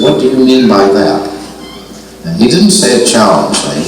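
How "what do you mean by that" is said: a mildly challenging, higher "What do you mean by that?"; challenging mimic. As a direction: mimic Bob with chin jutted out, pushing back. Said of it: "I jutted my chin out when I mimicked Bob".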